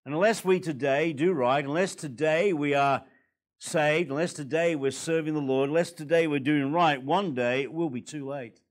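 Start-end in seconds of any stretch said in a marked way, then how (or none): none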